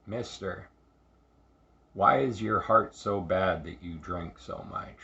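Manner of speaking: put-on deep, rich Jamaican accent. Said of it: "in a deep, rich, Jamaican accent".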